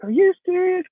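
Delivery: imitating coworkers freaking out; retold excited disbelief.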